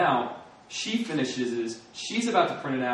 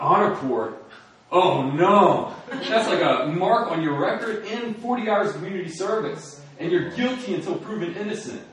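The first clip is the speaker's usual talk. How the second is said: alarmed friends; 7 semitones higher, 5 dB louder than usual. Retold or imitated. Friends alarmed about honor court.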